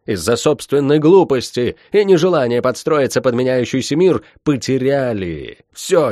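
sneering villain speech; scornful sorceress. Acted. Tiph's villainous monologue.

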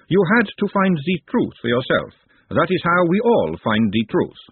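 high lady's voice, slowing at the end; Ladyship's voice. A narrator's reading. Ladyship teaching Nut about truth, deliberate.

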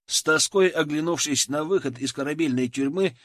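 plain reading voice

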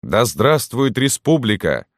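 high, slow mock shout; soldiers' cheer. A narrator's reading. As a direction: hail it with a drawn-out, high-pitched cheer. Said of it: "закричали солдаты". (возглас солдат, высоко и протяжно)

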